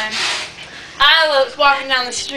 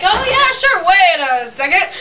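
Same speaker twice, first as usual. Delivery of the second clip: high put-on voice, dropping at the end; mock pig voice; 5 semitones higher, 3 dB louder than usual. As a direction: answer as a cartoon pig. Pig answers wolf at door.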